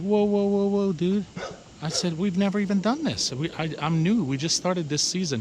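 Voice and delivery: retold startled protest to a threatening neighbour; retold alarmed protest. Retold standoff with aggressive neighbour.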